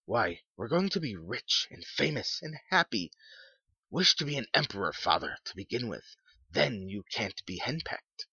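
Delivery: high, excited mock-horror banter; teasing son. A narrator's reading.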